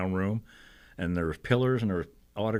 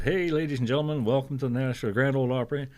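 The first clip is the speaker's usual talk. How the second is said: lightly voiced MC, pitched up; a hint of an emcee's welcome; show host; 5 semitones higher than usual. MC welcoming the Opry audience, lightly imitated. Voicing the MC's stage welcome.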